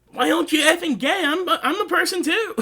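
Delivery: high, loud and laughing through it; laughing Clark quote. Retold or imitated. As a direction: blurt it out half-laughing in mock exasperation. He's being like.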